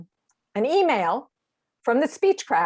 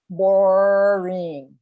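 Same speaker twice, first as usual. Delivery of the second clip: mock bored verdict; 3 semitones lower, 4 dB louder than usual. Mocks a life chronology.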